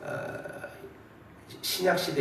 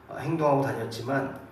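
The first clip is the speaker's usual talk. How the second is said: ordinary talk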